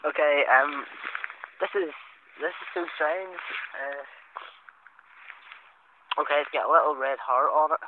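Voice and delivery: loud running commentary for the recorder; projected, self-conscious description; acting up for recorder. Real, not acted. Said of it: "acting up for the bloody voice thing".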